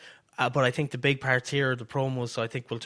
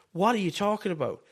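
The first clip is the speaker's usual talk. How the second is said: mildly frustrated, higher at the start; pretend frustration; 4 semitones higher than usual. Helper frustrated with his wrestler mid-match, mildly acted. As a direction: lightly act out a fed-up cornerman. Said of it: "get frustrated with Trick and be like".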